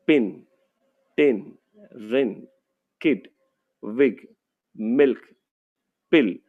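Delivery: teacher models short i words; word list read-aloud. Shown as a demonstration. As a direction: read each word clearly for the class. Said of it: "ये हर शब्दों में यह क्या कर रहा है?".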